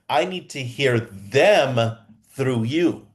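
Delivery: "them" drawn out in a very slow line; slow right down and lean on "them"; stress on THEM. Shown as a demonstration. Coach quotes his key rule emphatically.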